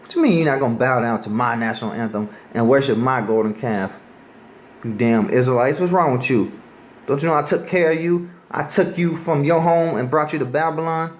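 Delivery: an angry king scolding, rising in pitch toward the end; preacher voicing an angry Nebuchadnezzar to the crowd; mad king. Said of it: "So he was mad. He said".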